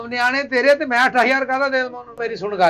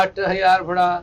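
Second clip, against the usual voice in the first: mocking mimicry; 4 semitones lower, slower than usual. Shopkeeper mimics the demand.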